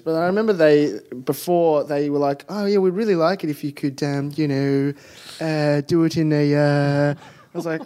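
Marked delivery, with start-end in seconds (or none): 2.5-7.1 lightly mocked stuffy English accent, hesitant; constipated English accent. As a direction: hem and haw as an awkward English producer. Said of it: "this accent that you're doing for the people making the show".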